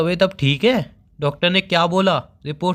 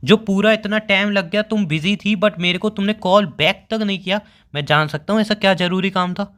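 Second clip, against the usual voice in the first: higher-pitched, aggrieved demand; insistent questioning; 4 semitones higher than usual. Acted. Boyfriend questions the missed call back, insistent. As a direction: press her for an explanation, pitch raised.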